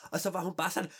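plain reading voice

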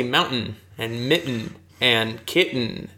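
"mountain", "mitten", "kitten" with the middle T unpronounced; dropped T's. Shown as a demonstration. American host showing his accent, T's dropped in "mountain", "mitten", "kitten". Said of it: "we don't pronounce our T's".

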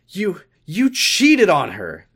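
high, loud, drawn-out cry; shouted accusation. A narrator's reading. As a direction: blurt it out as a stammered, outraged shout. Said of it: "Amy shouted".

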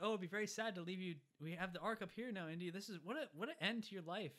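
hammed-up sarcastic farewell; gloating villain. Villain thanking Indy for the ark, gloating. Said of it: "he's like".

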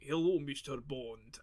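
put-on stereotypical Russian accent. Imitating people in Russia greeting Bond, stereotypical Russian accent. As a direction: draw it out in a stock Russian accent. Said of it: "people in Russia who are just like".

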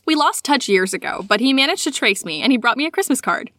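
measured read-aloud storytelling; story narration. A narrator's reading. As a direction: read it aloud like a personal tale. Reads a listener's sighting aloud.

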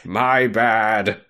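big drawn-out oh, then a pause; hammed-up sheepish admission; mock realization. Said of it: "And he's like".

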